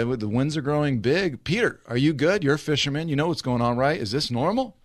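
hurried, worried appeal to a friend; freaking out. Acted. Disciples turning to the fisherman in the storm, mildly freaking out. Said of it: "they start freaking out".

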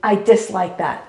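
slow, composed demonstration; measured and unbothered; light, measured dislike. Shown as a demonstration. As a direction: say it lightly, without anger. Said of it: "And then, and then say this".

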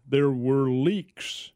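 slow dramatic reveal. Real, not acted. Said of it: "get this for a surprise".

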